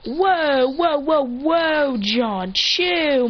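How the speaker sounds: loud, high run of whoas; acted startled "calm down"; alarmed protest. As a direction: back someone off in a panic. Alarmed, calming John down.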